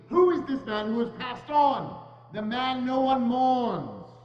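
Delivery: desperate plea. Acted. Scrooge pleading desperately.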